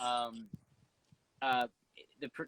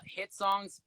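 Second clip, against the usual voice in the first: "hit songs" drawn out slowly, pitched higher; careful clarification; 6 semitones higher than usual. Real, not acted. Clarifying which word was meant.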